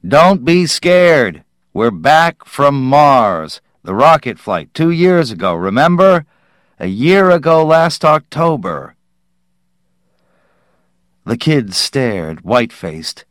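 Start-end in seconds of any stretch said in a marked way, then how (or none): 0.1-9.0 calling through cupped hands. Acted. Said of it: "Stone cupped his hands".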